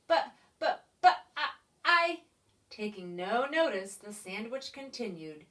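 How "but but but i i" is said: a hint of a flustered stammer. A narrator's reading. Stunned pig stammers at the creature, mild stammer. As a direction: stumble over the words. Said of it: "All Pinkerton could say was".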